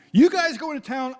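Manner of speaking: light high voice for Jesus; lightly voiced Jesus giving orders; voicing Jesus. Jesus voiced sending disciples off.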